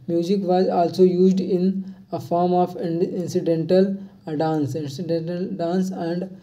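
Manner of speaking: reads each phrase slowly and evenly for note-taking; a teacher reading a quiz question slowly; slow dictation reading. Acted. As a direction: dictate it word by word to the class.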